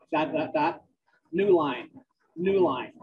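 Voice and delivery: dictating text with spoken punctuation; measured dictation to a recorder, words spaced out. Acted. Dictates novel aloud on treadmill.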